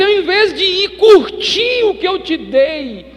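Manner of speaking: loud, high, impassioned royal rebuke; the king scolding the wicked servant, loud and high; rebuking king. Acted. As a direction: thunder the king's reproach, slowing on key words.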